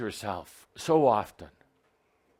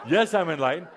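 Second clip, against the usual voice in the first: with a smile; 5 semitones higher, 3 dB louder, faster than usual. Shown as a demonstration. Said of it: "you say it with a smile and a laugh".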